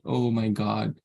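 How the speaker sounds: low mock grumble; lightly acted weary complaint; disgruntled. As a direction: play a reluctant giver, dreading the request. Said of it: "with a disgruntled mind and mood".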